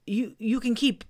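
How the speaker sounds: mildly earnest bear. Acted. Pooh persuading Owl, mildly earnest. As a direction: press the point sincerely. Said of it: "said Pooh earnestly".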